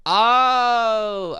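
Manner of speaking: loud, drawn-out, high "oh"; long "oh" of realisation. Real, not acted. Player realising the shopkeeper will talk from the back, dawning realisation. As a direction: let a big "oh" swell as it dawns.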